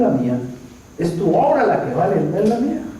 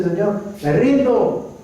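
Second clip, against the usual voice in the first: retold tearful surrender; 3 semitones higher, slower than usual. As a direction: cry out in imitated despair, slowly giving up. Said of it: "solamente a llorar y decirle".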